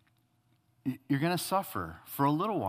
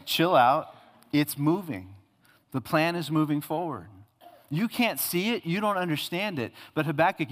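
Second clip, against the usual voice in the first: casual God; 2 semitones higher than usual. Acted. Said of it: "I'm, uh, translating".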